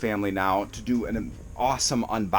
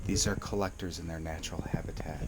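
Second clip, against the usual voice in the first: nature documentary; 7 semitones lower, 10 dB quieter, faster than usual. Pretend. Joking narration about collectors.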